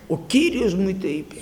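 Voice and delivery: whispered, imitating a prophet who frightens people; ominous whisper. Preacher imitating a false prophet scaring souls, mock ominous whisper. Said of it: "και φόβιζε".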